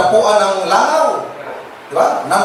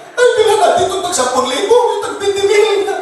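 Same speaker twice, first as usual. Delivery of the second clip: much higher, laughing mock show-off voice; mock lavish relative; 13 semitones higher than usual. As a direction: ham up the big spender at the wake. Relatives splurging after the death. (kunwaring magarbong kamag-anak, tumatawa at mataas ang boses)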